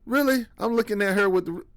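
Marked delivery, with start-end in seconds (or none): 0.1-0.5 high, disbelieving "Really?"; mock-stunned, pitched up; incredulous. Son hearing mom cries over John Wayne, high and disbelieving. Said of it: "I'm like".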